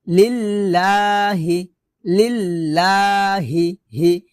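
লিল্লাহি with a light h from the bottom of the throat; light thin ha. Shown as a demonstration. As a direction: draw out লিল্লাহি, keep the final হি thin. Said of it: "হলকের শুরু থেকে পাতলা করে".

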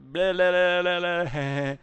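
loud, high taunting blah blah; mocking blah blah. Taunting the police from the car, loud mocking babble. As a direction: jeer at the cops with silly babble. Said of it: "I'm gonna, uh".

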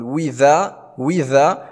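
"وذا" starting on a clear wi glide, no glottal stop; hamza turned to waw. Shown as a demonstration. Teacher showing the replaced hamza, "وذا" with a waw. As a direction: say "وذا" as wi-dha. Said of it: "نبدل الهمزة الثانية واوا".

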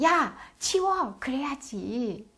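drawn-out mock order; slow, exaggerated child's scolding; imitated child acting mom. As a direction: play a kid ordering a tidy-up. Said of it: "민지도 한마디 거들어주네요".

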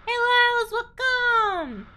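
high, bubbly welcoming voice; squeaky-sweet anime girl host; cute anime streamer. Acted. Welcoming raiders in persona.

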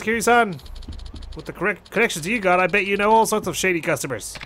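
lightly voiced, urgent caller; a hint of a younger-brother type; concerned club manager. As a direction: report trouble to a trusted friend. Voices the game's host club manager Yuya.

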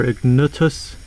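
"Ignutus" with a u in the middle; alternative pronunciation. Shown as a demonstration. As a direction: try "Ignutus", u as the middle vowel. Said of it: "problems pronouncing this guy's name".

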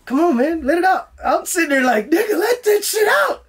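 rising from urging to a high shout; building to a yell. Retold or imitated. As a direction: push yourself harder until you yell. Urging himself, panicking.

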